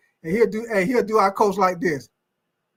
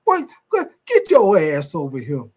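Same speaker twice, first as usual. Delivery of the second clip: coach snatching player; 5 semitones lower than usual. Retold or imitated. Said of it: "He be done snatch your ass out the game".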